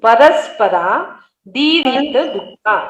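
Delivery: परस्परा दीरित दुखा slowly, word by word; pronunciation model. Shown as a demonstration. Teacher asking student to listen, slow syllable-by-syllable परस्परा दीरित दुखा. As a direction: separate परस्परा, दीरित and दुखा with long vowels. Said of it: "सुनो".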